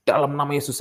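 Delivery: acted-out healing declaration; re-enacted healing prayer. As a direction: invoke the name with sudden authority. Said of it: "saya bilang gini".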